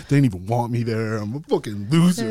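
high, breaking, laughing wail; self-loathing wail. Retold or imitated. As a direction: wail it in mock despair. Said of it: "I was like".

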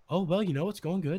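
a hint of an internet personality's manner; Frank. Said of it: "exact same as he is in every video".

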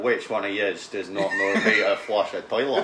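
slow mock Glaswegian scolding, laughing through it; a slow, laughing Glaswegian telling-off; Glaswegian impression. Mimicking Steve's Glaswegian scolding of the lads, slow and laughing. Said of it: "But not a proper Glaswegian".

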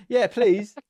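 high, meek yes please; timid yes please. Retold or imitated. Runner offered the ball, meek high yes please. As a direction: ask shyly for the ball. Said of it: "is that how is he saying it".

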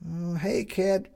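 put-on high girl, motherly; parental tone. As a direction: talk down kindly to a kid. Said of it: "adopting a parental tone".

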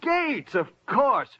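as if it just clicked; sudden recall. Acted. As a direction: pitch jumps way up in recognition. Sudden recognition of the name.

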